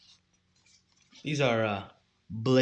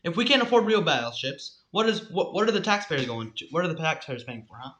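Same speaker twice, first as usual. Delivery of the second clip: raised, indignant taxpayer rant, easing down; mock outrage; 3 semitones higher, 5 dB louder than usual. Complaining that taxpayers can't get real battleships, mock outrage. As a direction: rant as if public money were wasted.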